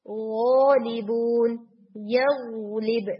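गौलिबून slow with a soft gh and no air; soft hit on the gh in गौलिबून, यग़लिब; soft voiced hit. Shown as a demonstration. Teacher demonstrating the correct soft voiced gh. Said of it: "बहुत soft सा एक hit है".

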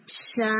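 شا with the j softened into a hissy 'sh'; wrong airy jeem. Shown as a demonstration. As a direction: let air run through, turning jaa into شا. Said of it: "یہ sound نہیں آنی چاہیے".

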